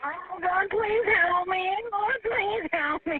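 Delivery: crying out to God in real panic, voice breaking; a desperate prayer through tears; real terrified pleading. Real, not acted. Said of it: "Oh, I'm scared".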